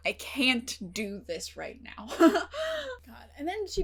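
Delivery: a teary laugh breaking into the words; overwhelmed fan laughing and near tears; laughing through tears. Real, not acted. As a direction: laugh it off while a little choked up. Overwhelmed by sad scene.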